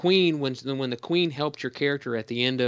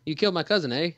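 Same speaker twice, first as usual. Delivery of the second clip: mock Canadian accent; 5 semitones higher, faster than usual. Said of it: "yeah, there it is".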